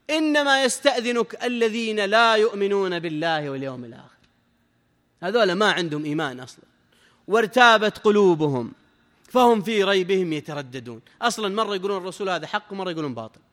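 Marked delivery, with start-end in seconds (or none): 0.1-4.1 slow, sustained Quranic recitation; measured scripture chant, unhurried; verse recitation. Real, not acted. 7.3-11.0 slow, firm Quranic recitation; deliberate, drawn-out scripture reading; verse recitation. Real, not acted.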